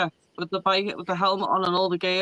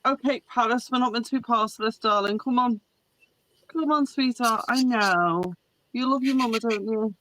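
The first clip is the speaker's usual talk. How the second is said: tender pet talk. Real, not acted. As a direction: soothe the little dog gently. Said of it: "talking tenderly to her dog".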